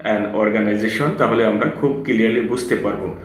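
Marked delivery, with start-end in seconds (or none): 0.0-1.1 slow and clear. Shown as a demonstration. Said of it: "শুনতে পাই এভাবে যে".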